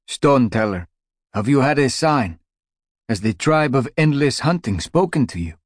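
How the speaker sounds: put-on high, pleading young cat voice; anxious young cat. Young cat asks the elder.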